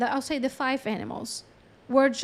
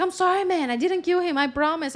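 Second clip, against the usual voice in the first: higher-pitched pleading to be believed; mock frantic apology; 5 semitones higher, 3 dB louder than usual. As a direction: plead in a mildly panicked, raised voice. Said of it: "starts freaking out".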